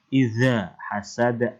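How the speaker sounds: slow "Idza" with z on the tongue tip; tongue-tip zal. Shown as a demonstration. Teacher showing zal to pupils, slow tongue-tip "Idza". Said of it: "pada ujung lidah".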